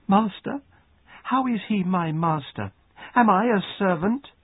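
high, incredulous questions; indignant protest. A narrator's reading. Girl protests being called servant.

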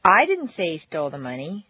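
the opening "I" punched and lengthened; stress on I. Shown as a demonstration. Teacher demo shifting the blame, stress on "I". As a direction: start hard on "I", then ease off. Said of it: "indicate that you were not the person to say it".

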